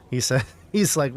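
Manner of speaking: ordinary talk, nothing marked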